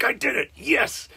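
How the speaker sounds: high, loud victory whoop; triumphant yell. Retold or imitated. Bowler cheering his winning strike, triumphant yell. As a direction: shout it out like you just won.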